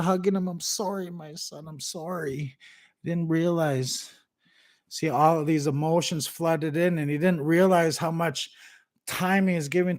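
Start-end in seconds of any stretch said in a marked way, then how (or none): 0.5-4.1 softer, slow choked-up sorry; tearful apology. Retold or imitated. Dad hugging his son and tearfully apologizing. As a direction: whisper it through tears. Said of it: "He started crying".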